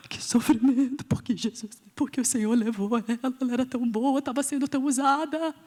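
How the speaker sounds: hammed-up crying widow; a half-comic wail of grief; mock sobbing lament. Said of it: "Você tá rindo". (lamento choroso de brincadeira)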